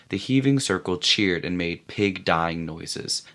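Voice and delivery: ordinary delivery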